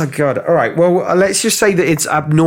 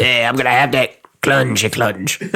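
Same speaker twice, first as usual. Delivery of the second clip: lightly voiced creepy clown; leering sinister clown, half-played; League of Gentlemen clown; 3 semitones lower than usual. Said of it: "Why do I sound like the, uh, the clown out of, uh, League of Gentlemen?".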